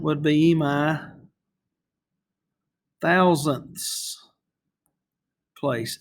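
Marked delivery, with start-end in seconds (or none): 3.0-4.2 thousandths with the final THS leaned on; stress on the ending. Shown as a demonstration. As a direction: push the end of thousandths. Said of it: "the emphasis on the end there".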